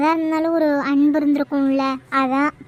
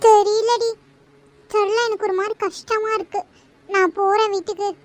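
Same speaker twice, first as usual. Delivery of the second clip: crying; 3 semitones higher than usual. Real, not acted. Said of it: "loose மாதிரி அழுகாத கலை".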